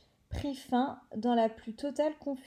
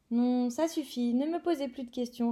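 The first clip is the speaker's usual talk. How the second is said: curt, slightly fast brush-off; a giant shutting down questions, mildly gruff. Acted. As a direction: cut them off gruffly. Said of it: "d'un ton bourru".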